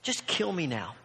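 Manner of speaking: low, soft, resigned complaint; fed-up Jonah. Retold or imitated. Jonah telling God he is done, fed up. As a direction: give up and sulk at God. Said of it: "In fact, he says".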